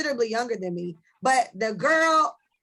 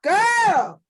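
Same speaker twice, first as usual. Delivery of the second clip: high, loud exasperated scoff; mock shout at the ex; exasperated girl; 8 semitones higher, 6 dB louder, slower than usual. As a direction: call her out with disbelief. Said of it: "I'm like".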